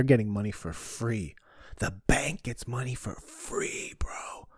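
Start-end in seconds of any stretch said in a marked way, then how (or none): 1.8-4.5 hushed conspiratorial whisper; mock secret whisper. Whispering a secret to the audience, hushed. Conspiratorial aside about free money.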